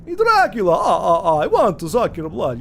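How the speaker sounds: Dracula impression. Shown as a demonstration. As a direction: ham up a classic Dracula. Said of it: "he's higher pitched".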